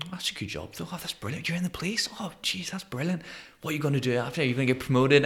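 a hint of starry-eyed neighbours gushing; impressed onlookers. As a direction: lightly imitate gushing admirers praising the police job. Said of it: "people around me would be saying to me".

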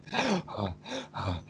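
a long breathy exhale, like you just stopped running; heavy winded sigh. Shown as a demonstration. Teacher shows students how breathlessness sounds, heavy winded sigh. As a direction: let the air rush out, spent. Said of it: "I can't even talk because I'm out of breath".

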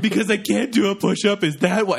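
put-on high-pitched, overwrought teenage outburst; mock yelling. Teen prank-yelling at girlfriend in line, mock yelling. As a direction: wail it in hammed-up outrage. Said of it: "I just start yelling".

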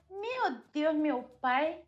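soft, lilting Mineiro plea; Mineiro pleading voice. Shown as a demonstration. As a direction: start a prayer as if asking a favor, in Minas accent. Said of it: "voz meio de pedir alguma coisa".

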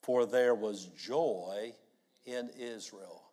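congregation reading aloud together; many voices in unison. Real, not acted. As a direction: read it out together, slow. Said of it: "Let's read it aloud together".

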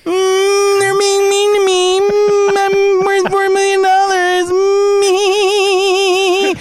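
high, droning mock-whine; mock crybaby whine. Host mocking a rich TikTok star's complaints, high crybaby whine.

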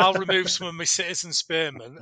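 quick, casual bloke voice; Darius voice. Retold or imitated. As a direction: toss it off like a matey king. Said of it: "and Darius said".

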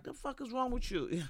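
a hint of telling someone off; mock going off. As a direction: snap at the old lady, half-mocking. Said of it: "versus being like".

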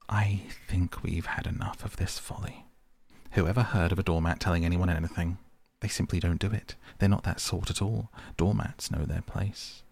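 a touch of petulant sniffing. Acted. Mole brushes off the rat's doormat talk, pettish. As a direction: dismiss him huffily. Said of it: "said the mole quite pettishly".

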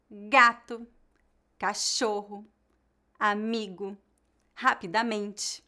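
"gato, cachorro, amigo, rapidamente" in careful citation style, leaning on the penultimate syllable; penultimate stress. Shown as a demonstration. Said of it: "a tônica na penúltima sílaba".

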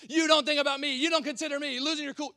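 mock wife complaining to her husband; a hint of a nagging wife. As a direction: mimic a fed-up wife. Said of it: "losing your cool on your husband".

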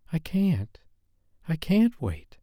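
high, strained woman's voice; desperate lover. A narrator's reading. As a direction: gasp it out desperately. Lover near climax.

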